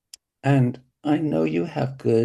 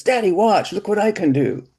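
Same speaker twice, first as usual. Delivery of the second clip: imitating a little boy; 9 semitones higher, 6 dB louder than usual. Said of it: "I can remember my son every ten minutes".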